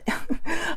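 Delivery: short chuckle mid-sentence; laugh. Real, not acted. Reading an over-the-top affirmation card aloud, short laugh. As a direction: let a brief laugh break into the reading.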